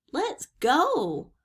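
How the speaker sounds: high, loud, drawn-out urging; crying out. A narrator's reading. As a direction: urge someone away impatiently. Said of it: "cried Annie".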